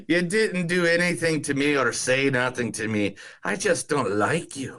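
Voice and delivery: a light Irish lilt on the film quote; Irish accent. Retold or imitated. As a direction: read the line like an Irish villager. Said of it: "Thank you for the Irish accent".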